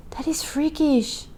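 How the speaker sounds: breathy hushed whisper; awed whisper. Real, not acted. Marvelling at a coincidence, whispered awe. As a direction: whisper in disbelief.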